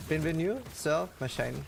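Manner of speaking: put-on light French accent, welcome greeting. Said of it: "what I tried to say".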